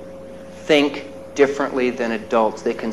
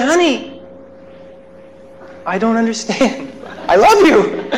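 tender reply; 7 semitones higher than usual. Retold or imitated. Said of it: "And I said".

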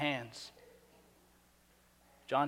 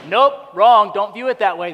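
curt correction; 5 semitones higher, 14 dB louder than usual. Retold or imitated. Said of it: "I'll be like".

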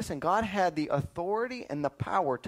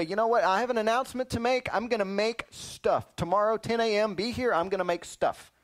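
mock grand announcement; 3 semitones higher than usual. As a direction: announce it like big news, playfully hammed up. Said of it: "stand up in heaven one day".

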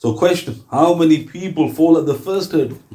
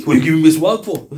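mock angry; faster than usual. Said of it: "He gets angry".

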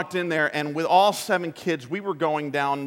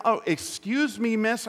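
higher, dainty polite excuse; overly courteous little aside; higher, prim polite voice; mock politeness; 6 semitones higher than usual. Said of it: "You're not concerned about being polite".

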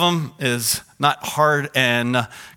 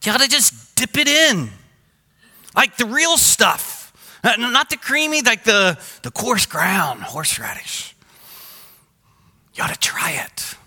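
much higher, insistent neighbor; 7 semitones higher, 4 dB louder than usual. Retold or imitated. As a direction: talk it up like a pushy neighbor. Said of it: "He goes".

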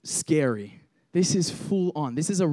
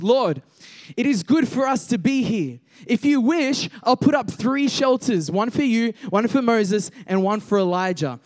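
higher voice, lightly flustered; mildly freaked-out Peter; 3 semitones higher than usual. Acted. Peter babbling offers of shelters to Jesus, mildly freaked out. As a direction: read it as a disciple a bit freaked out. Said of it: "Peter starts to freak out".

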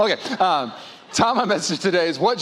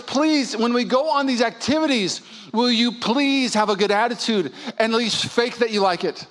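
higher-pitched, drawn-on "please"; pleading wife; 4 semitones higher than usual. Acted. Wife asking for a good attitude, pleadingly. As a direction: implore him, lightly acted.

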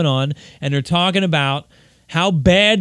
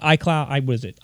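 normal talking voice

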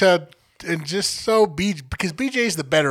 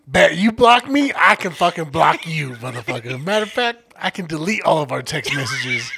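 laughing while talking. Real, not acted. Mock-retold petty revenge rant.

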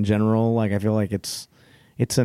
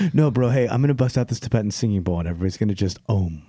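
imitating George; 3 semitones higher than usual. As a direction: lightly play the chill mediator. Imitating George calming everyone down.

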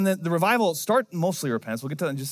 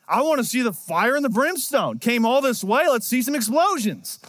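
mopey whiny Jonah; 6 semitones higher, 3 dB louder than usual. Pretend. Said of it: "he gets mopey and whiny".

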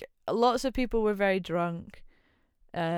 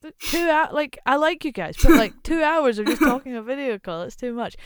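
exasperated protest; 6 semitones higher, 8 dB louder than usual. Retold or imitated. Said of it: "I was like".

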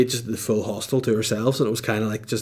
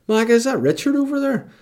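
high, called-out question; shouting over to a friend across the road; calling out; 12 semitones higher than usual. Retold or imitated. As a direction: call across the street to your mate.

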